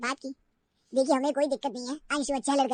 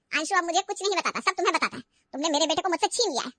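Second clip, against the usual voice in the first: accusing; 2 semitones higher, 5 dB louder than usual. Acted. Mother-in-law accuses Riya.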